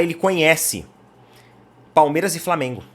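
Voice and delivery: ordinary talk, nothing marked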